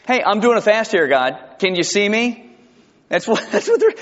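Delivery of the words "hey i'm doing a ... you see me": lightly mimicked teen calling for attention; a hint of a needy teenager, pitched up; complaining teenager. Preacher mimics a faster wanting God to notice, mock teenager. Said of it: "That sounds like a teenager".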